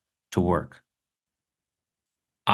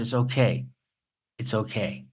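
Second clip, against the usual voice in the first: soft, settling reassurance; calm the argument down, trailing softer; gentle reassurance; 5 dB quieter than usual. Retold or imitated. Customer easing an argument over buying a sandwich, soft reassurance.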